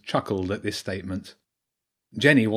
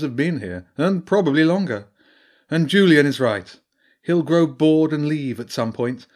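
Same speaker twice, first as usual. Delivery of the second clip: higher and louder, a wise old badger priestess; 5 semitones higher, 5 dB louder than usual. Priestess explains the Long Man to Jenny, grave and raised. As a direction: speak as the learned priestess warning of an old evil.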